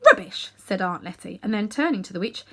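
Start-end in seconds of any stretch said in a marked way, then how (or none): 0.0-0.5 sharp high scornful snort of a word. A narrator's reading. Aunt Letty scoffing at Uncle Andrew's excuse. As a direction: dismiss it with contempt.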